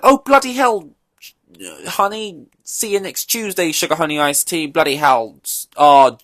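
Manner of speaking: high, loud, exasperated British moaning; mock him swearing into the radio, way up high; imitating whiny Russell. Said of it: "he used to be a lot more like".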